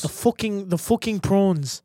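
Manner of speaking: put-on movie-style South African accent. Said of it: "there was that movie District Nine".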